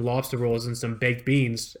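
joking put-on Boston accent; lightly hammed Massachusetts accent. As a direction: lay on a movie-learned Boston accent. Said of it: "I wish I could do that accent".

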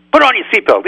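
a rabbi hypes the audience before quoting the Ramban, high and loud; excited warning. Acted. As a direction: sound the "put on your seatbelt" alarm high and loud. Repeated with more excitement.

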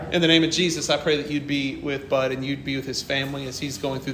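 soft, earnest prayer voice. Retold or imitated. Praying for a grieving coworker over the phone, softly earnest. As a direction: pray it quietly over the phone.

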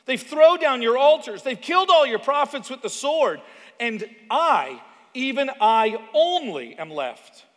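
high, loud, pleading complaint; desperate complaint. Retold or imitated. Elijah pleading with God, high and loud. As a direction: cry out the grievance to God.

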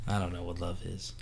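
hushed whisper; breathy whispered aside. Acted.

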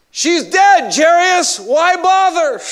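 servants' blunt news. Acted. Servants bring news to Jairus.

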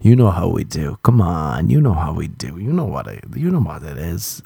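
a light take on a cocky guy; mock bro. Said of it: "I love when guys say that".

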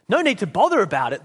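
lightly acted scoffing retort; indignant ghost. Ghost retorts to the man in heaven, mildly indignant. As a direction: throw it back with mild indignation.

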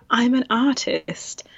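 slow, teasing little 'I'm an artist'; cheeky voice. Shown as a demonstration. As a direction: say it with a cheeky grin. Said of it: "I still say it in that cheeky voice".

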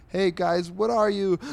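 high, loud greeting, cut off mid-question; chipper passing goat. Acted. Goat walking by greets the guys, high unsuspecting hello.

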